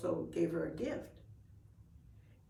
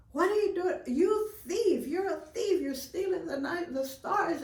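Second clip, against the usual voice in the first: high, loud accusing roar; outraged bear shouting down a raccoon; angry Bear; 9 semitones higher, 5 dB louder than usual. Acted. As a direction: yell at the little thief. Bear wakes and accuses thief.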